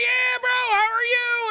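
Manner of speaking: bro voice. Retold or imitated. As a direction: gush like an overfriendly gamer bro. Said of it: "He's like".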